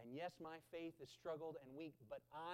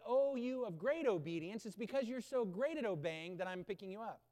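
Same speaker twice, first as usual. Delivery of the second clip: loud, hammed-up gushing; a mocking, hammed-up version of Jesus praising obedience; mock praise; 7 dB louder than usual. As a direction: overdo the flattery. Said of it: "neither did he say".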